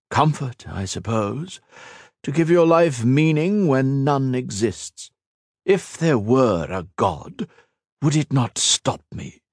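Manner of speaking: a lightly voiced immortal villain, scornful; villain Shinzan mocking Ethan's sacrifice, lightly voiced and scornful; cold villain. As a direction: sneer down at a mortal, unhurried. Shinzan mocks after a sigh.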